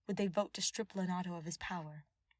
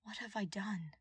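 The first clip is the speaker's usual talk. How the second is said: weeping; 3 semitones higher than usual. Acted. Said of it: "Ash wept".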